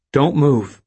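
high, loud order. A narrator's reading. Robber orders Stan, loud command. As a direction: command him sharply.

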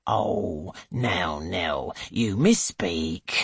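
put-on calm older woman correcting; gentle chiding. A narrator's reading.

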